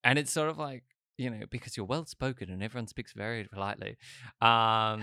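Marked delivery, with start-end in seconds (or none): 1.2-4.0 put-on well-spoken posh British; posh British accent. Shown as a demonstration. Showing a friend how the posh British sound, mock posh British accent. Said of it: "British asshole kind of voice sounds like".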